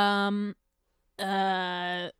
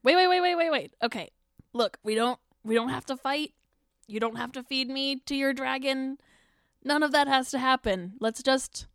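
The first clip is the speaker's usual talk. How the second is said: frantic pleading; 3 semitones higher than usual. Acted. Pleading with kobolds, in character.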